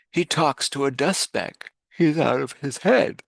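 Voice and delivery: gossiping jungle creatures. Acted. Jungle gossip spreading news.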